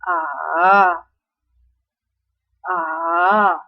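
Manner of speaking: dipping tone on A; A dips down then rises; third tone. Shown as a demonstration. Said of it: "Cara pengucapannya yaitu". (nada turun lalu naik pada A)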